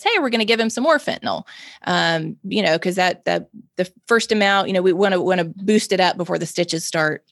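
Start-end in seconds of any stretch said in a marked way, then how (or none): 0.0-1.4 quick, breezy, casual nurse voice; inappropriately cheerful. Retold or imitated. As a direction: toss it off lightly and fast. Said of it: "she comes in an hour later and says".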